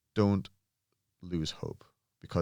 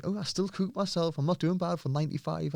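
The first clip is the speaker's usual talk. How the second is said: put-on high, proud little old-woman voice; old lady voice; 10 semitones higher than usual. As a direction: voice her pride, pitched well up. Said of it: "And she went".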